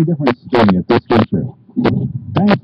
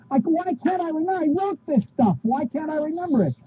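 frustrated self-reproach; 12 semitones higher, 7 dB quieter, faster than usual. Real, not acted. Frustrated at forgotten lines.

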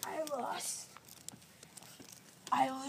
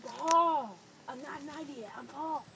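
put-on drunk caveman voice. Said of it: "You're speaking like a drunk caveman".

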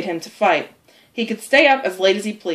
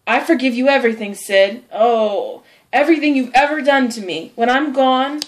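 dying martyr; 4 semitones higher than usual. Acted. Tom feigning death to his brother, as dying martyr. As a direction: play up a deathbed farewell.

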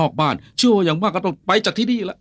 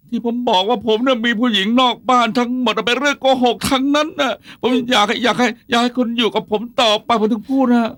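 desperate pleading; 6 semitones higher than usual. Acted. Husband pleads, retracts confession.

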